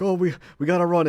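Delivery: high, loud hurried alarm; mock panicked urging. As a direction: push them to flee, hammed-up. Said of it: "she's like".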